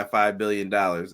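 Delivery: lightly voiced movie villain; a hint of a scheming supervillain; Doctor Evil voice. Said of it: "in my Doctor Evil voice".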